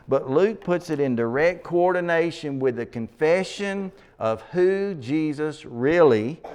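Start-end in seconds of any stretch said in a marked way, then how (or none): 4.2-6.4 "really" drawn out and set apart before a pause; slow down and lean on "really"; stress on "really". Shown as a demonstration. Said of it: "emphasize the word really".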